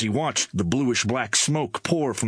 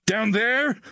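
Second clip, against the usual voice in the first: high, horrified query; touch of horror; 13 semitones higher than usual. A narrator's reading. Crewman asks about the landing below, a touch of horror. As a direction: lean on THERE with a touch of horror. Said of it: "emphasizing the last word with a touch of horror in his tone".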